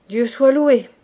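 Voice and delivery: loud relieved exclamation; relieved sigh. Acted. Corporal hearing Fabrice hunts, relieved exclamation. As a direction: thank heaven out loud. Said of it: "avec un gros soupir".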